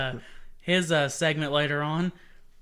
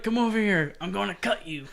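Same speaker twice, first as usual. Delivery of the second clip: imitating a film character; movie tough guy; 5 semitones higher than usual. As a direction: threaten like the limping movie guy. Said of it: "He's like".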